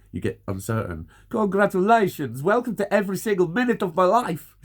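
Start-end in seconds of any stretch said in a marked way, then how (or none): 1.3-4.6 much higher, loud fake celebration; sarcastic mock cheer. Real, not acted. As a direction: shout it like a bitter party host. Sarcastic exclamation.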